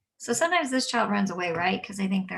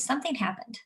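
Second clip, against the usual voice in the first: calm; 4 semitones higher, 4 dB quieter than usual. Shown as a demonstration. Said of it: "My go-to is always".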